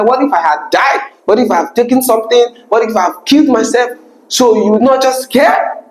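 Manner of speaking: lightly voiced angry ex-partner; retold anger. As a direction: replay her hurt anger, slightly up in pitch. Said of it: "I could feel the anger in her voice".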